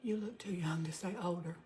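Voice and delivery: reading a viewer comment under her breath; whispered reading. Real, not acted. Reading a viewer's comment to herself in a whisper. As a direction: whisper the comment as she reads it.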